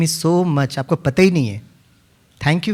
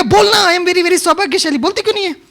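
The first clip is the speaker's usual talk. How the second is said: pretend anger; 11 semitones higher than usual. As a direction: play the angry teacher to scare her. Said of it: "मैं थोड़ा गुस्से में दिखाया".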